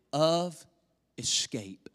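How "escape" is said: whispered. Acted. Preacher to congregation, hushed whisper on escape. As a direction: drop to a breathy whisper on the last word. Whispered end of scripture line.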